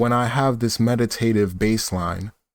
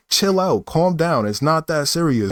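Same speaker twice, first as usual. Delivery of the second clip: higher, firmer telling off; telling him off; 4 semitones higher than usual. Retold or imitated. Narrator warning the pushy guy, raised firm voice. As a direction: tell him to chill, pitched up. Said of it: "And I was like".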